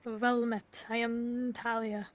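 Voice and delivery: slow, formal imitation of her accent; lightly voiced imitation of her accent; mock Talia accent. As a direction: try on her accent, measured. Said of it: "do your impression".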